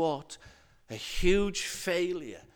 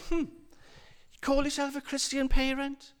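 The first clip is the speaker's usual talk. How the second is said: higher-pitched, lightly mocking challenge; accusing inner voice; 7 semitones higher than usual. Little voice challenging a Christian parent, lightly accusing. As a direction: question them like a nagging critic, lightly acted. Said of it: "this little voice will say".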